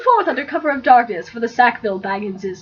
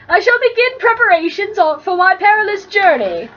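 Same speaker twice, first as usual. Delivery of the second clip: put-on pompous young hero; 6 semitones higher than usual. Frodo voiced, higher.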